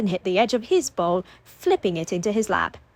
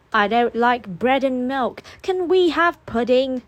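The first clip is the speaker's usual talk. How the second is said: put-on whiny child; 5 semitones higher, 4 dB louder than usual. A narrator's reading. Child whining for pudding.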